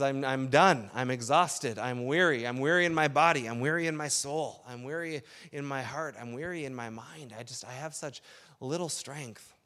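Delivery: fading into a tired, soft sigh of a voice; exhausted, giving-up inner voice; weary and worn out. Pretend. Voicing a worn-out believer.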